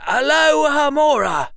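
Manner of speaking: loud, high, full-breath incantation; powerful spell shout. A narrator's reading. Harry brings out the big guns, bellowed spell. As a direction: bellow the spell with everything you have. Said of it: "Harry drew a deep breath".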